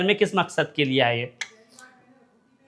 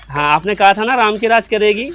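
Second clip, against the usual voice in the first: sarcastic. Acted. Sarcastic daughter repeating mother's words.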